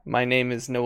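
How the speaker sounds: hushed, lightly voiced unseen creature; voice in the head. Game master as a voice in the player's head, quiet. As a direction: speak softly, as if inside their head. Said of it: "you hear this voice in your head".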